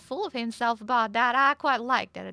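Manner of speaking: slightly lilting Southern belle, chatty and polite; lightly voiced Southern belle. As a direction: play a gently friendly Southern belle. Plays Southern belle in roleplay.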